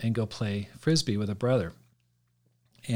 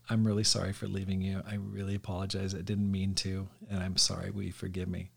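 softer and lower, fading gently; sincere apology; 3 semitones lower, 7 dB quieter than usual. Retold or imitated. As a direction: apologize tenderly to your wife. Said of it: "I said".

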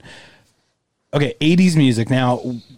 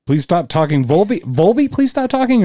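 high, pleading mock cry; mock plea; 7 semitones higher, 3 dB louder than usual. Friend mocking his plea to the band, high and pleading. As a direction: mimic the whiny plea.

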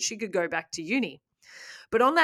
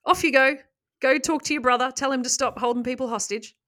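brisk, higher, louder mock police order; mock cop orders; 4 semitones higher, 3 dB louder than usual. Cops pushing the teenage brother into the bank, mock bossy order. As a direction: shoo him in like a bossy cop.

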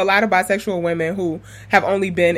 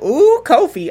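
high, louder mock swoon; playful "ooh" of admiration; gushing fan; 8 semitones higher, 4 dB louder than usual. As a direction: imitate someone gushing over a crush. Acts out an excited fan.

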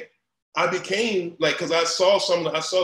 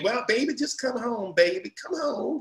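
higher, a hint of a pleading mother; lightly voiced mom; 8 semitones higher than usual. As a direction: coax him home like a worried mom. Mom calls him home.

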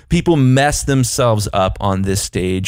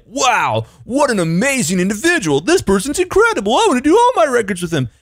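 much higher, gushing with wonder; excited gushing; 12 semitones higher than usual. Retold or imitated. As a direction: gush like a starstruck fan. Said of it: "they don't just naturally say".

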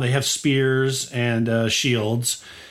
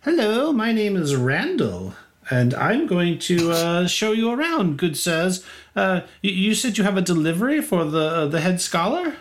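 high prim scribe welcoming good sirs; polite scribe; 6 semitones higher than usual. Acted. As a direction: greet the guests with a deferential bow. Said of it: "and he says".

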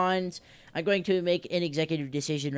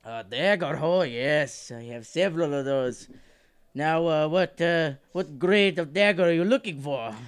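bad Scottish accent. Dwarf blacksmith asking a customer about daggers, bad Scottish accent. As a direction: wobbly attempt at a Scottish dwarf. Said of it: "that's a great Scottish accent".

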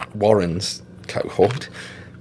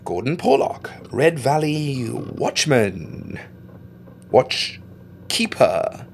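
even slower, grander sign-off; announcer retake; 3 semitones higher, much slower than usual. Acted. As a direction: try the big announcer line again. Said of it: "Nah, that was shit".

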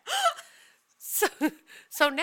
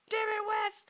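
high-pitched mock scolding; retold exasperation; 11 semitones higher than usual. Cat owner blames Wes for the trick, mock exasperated. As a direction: scold in a raised, squeaky pitch. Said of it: "I was so mad".

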